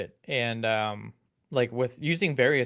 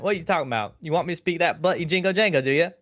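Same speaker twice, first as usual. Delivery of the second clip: higher-pitched, hammed-up Cockney-style British; mock British accent; 4 semitones higher, 3 dB louder, faster than usual. Shown as a demonstration. American co-host asked for a British accent, mock Cockney. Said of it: "you do a British accent for me now".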